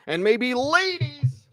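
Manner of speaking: breathy high whisper; whispered aside. Acted. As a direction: slip it in under your breath. Whispered aside about ladies.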